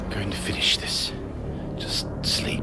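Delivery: hushed. Acted. Lulling Peter to sleep.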